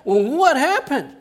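high, loud laughing question; laughing parent. Pretend. Parents begging the kid to explain, laughing. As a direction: ask through a laugh.

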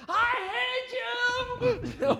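high, drawn-out mock teenage yell; hammed-up teenager screaming at a parent. Teenager yelling at a parent, hammed-up high yell. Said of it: "we've all had teens, right?".

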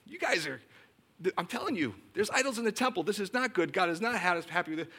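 mild, insistent retold warning; Jeremiah. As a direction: plead with a stubborn people to change. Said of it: "prophet Jeremiah and says".

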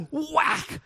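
high-pitched, drawn-out whack; mimed whack. Retold or imitated. Teacher rapping a fourth grader's head, high mimicked whack. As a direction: act out the blow with a high, falling cry. Acting out teacher's knuckle strike.

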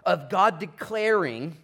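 slow, loud and drawn out; declaring loudly. Acted. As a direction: proclaim it slowly with weight. Preaching climax.

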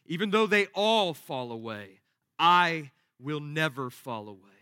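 firm, self-assured boast with stressed I; understated cocky confidence; proud self-assurance. Acted. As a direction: declare it with proud certainty. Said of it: "just drips with pride and self-assurance".

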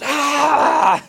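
sudden high piercing scream; short shrill cry of terror, acted out; imitated scream. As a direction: let out one sharp scream, like the possessed man. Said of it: "escuchan gritos".

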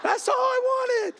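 high, slow laugh through the words. Real, not acted. Pastor laughing as he finishes the story. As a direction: let the laugh carry it. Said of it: "laughs at own story".

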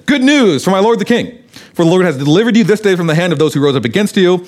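eager herald. Acted. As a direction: announce it like a proud runner. Cushite eagerly delivers good news.

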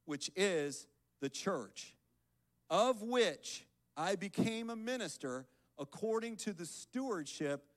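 measured, emphatic Bible reading; scripture reading. Acted. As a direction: read the verse out deliberately, phrase by phrase. Reads scripture to congregation.

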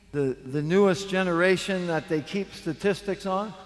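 ordinary talk, nothing marked

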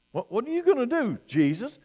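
high, quick scoffing question; mock incredulous challenge. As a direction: play a doubter challenging the speaker. Voices Jesus's doubting opponents.

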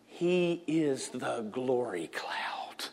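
slow hushed whisper. Acted. Pastor to the congregation, an awed slow whisper. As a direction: drop to a breath of awe. Sudden hush after preaching.

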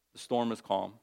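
ordinary talk, nothing marked

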